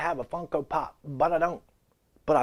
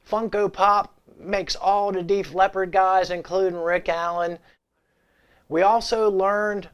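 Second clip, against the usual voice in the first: mock-grand summing up; 3 semitones higher, 4 dB louder than usual. Wrapping up the video lesson.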